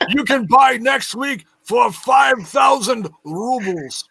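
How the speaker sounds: mock pay-per-view pitch.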